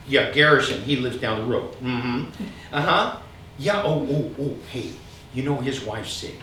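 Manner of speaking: lightly voiced chatty mom on the phone; a hint of a mother gossiping on the phone; imitating mom on the phone. Son imitating his mom chatting on the phone, lightly voiced. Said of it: "Here's my mom answering the phone".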